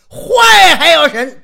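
very high, loud, slow disbelief; incredulous. Acted. Listener shouts in disbelief at the nickname Bad God. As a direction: scoff in amazement.

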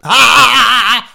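a loud hearty ha-ha-ha from a big man; booming laugh. Acted. Xiong Rengang laughs again.

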